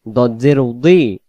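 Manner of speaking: দদ জের উদি, slow, with a thick "dwee"; round-mouthed heavy Dad. Shown as a demonstration. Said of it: "মুখটা গোল হবে".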